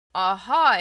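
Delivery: a triumphant exclaimed aha; gleeful find. A narrator's reading. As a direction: pounce on the word with glee. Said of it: "exclaimed the tiger".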